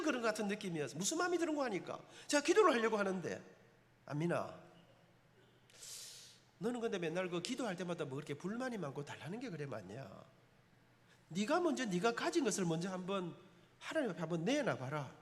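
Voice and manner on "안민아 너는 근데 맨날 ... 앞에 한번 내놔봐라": lower, softer, unhurried chiding God; a hint of a calm, scolding divine voice. God speaking to him, voiced.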